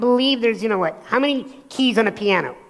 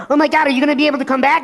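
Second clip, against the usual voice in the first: fast, higher, panicky; panicked friend; 4 semitones higher, 5 dB louder, much faster than usual. Retold or imitated. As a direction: blurt it out in a panic. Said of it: "he got more and more petrified".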